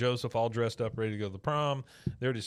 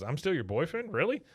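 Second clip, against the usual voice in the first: higher, rising disbelief on really; mock surprise; 6 semitones higher than usual. Bobby asking Connie if he's still her boyfriend, high surprised squeak. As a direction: squeak it with hopeful amazement.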